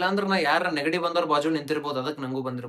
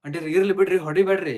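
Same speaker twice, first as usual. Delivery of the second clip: raised, urgent appeal to stop; urgent plea; 4 dB louder than usual. Acted. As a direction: step in and plead with the aunt. Friend intervenes during mother's beating. (ತುರ್ತಾಗಿ ಬೇಡಿಕೊಳ್ಳುವ ಧ್ವನಿ)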